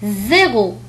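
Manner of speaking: "زيرو" opening on a buzzing z; Z sound. Shown as a demonstration. Teacher showing the last letter, buzzing z in "زيرو". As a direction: say "زيرو" with voiced z and French r. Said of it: "وينطق كالتالي".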